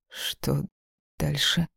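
soft, shaky whisper; trembling whisper. Acted. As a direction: barely voice it, lips trembling. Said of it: "прошептала дрожащими губами".

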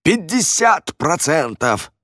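high, slow, desperate cry; strangled squeak. Acted. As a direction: squeal the offer through a squeezed throat. Редж повторяет, его душат.

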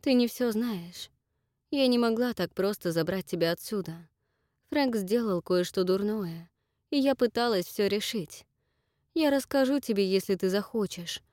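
calm her with an explanation; gentle pleading. Acted. Esther gently explains herself.

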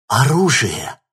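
put-on girl exclaiming on finding an arsenal; excited exclamation. A narrator's reading. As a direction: blurt it out at the sight of weapons. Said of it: "воскликнула Ксения".

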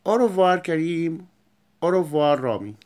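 bright, loud farewell; cheerful goodbye. Shown as a demonstration. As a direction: wave off the class loudly. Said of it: "acted goodbye to pupils".

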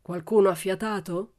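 loud, menacing challenge; grunted threat. A narrator's reading. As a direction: grunt it at the crowd as a dare. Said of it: "grugnì". (grugnito minaccioso)

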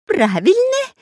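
high, loud excited squeal; robber's squeal. Acted. Robber squealing approval to the pirate. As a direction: shriek it with sudden joy. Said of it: "прошипел Дырка".

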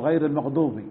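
"المغضوب" said almost like "المغدوب", ض near د; ḍād overdone as dāl. Shown as a demonstration. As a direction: exaggerate the ض until it sounds like a د. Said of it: "هذا أيضًا مبالغة".

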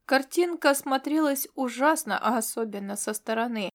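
usual speaking voice

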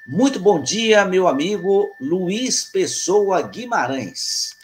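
loud, high, drawn-out introduction of a guest; announcer-style greeting. Real, not acted. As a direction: present your co-host with a big radio-host flourish. Host ceremoniously introduces his co-host. (saudação efusiva de apresentador)

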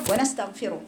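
measured, devout prayer recitation; opening prayer. Acted. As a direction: recite the opening supplication with reverence. Opening prayer before the lesson.

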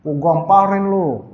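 slow, menacing grandpa threat; a hint of gruff Betawi grandpa; threatening old grandpa. Old grandpa threatening a cheeky kid, slow and mock stern. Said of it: "engkong-engkong".

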